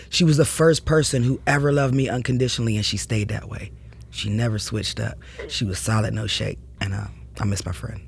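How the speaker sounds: fighting tears while speaking of a lost friend; holding back tears. Real, not acted. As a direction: voice sinking low and soft, close to crying. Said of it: "I wasn't trying to make you cry".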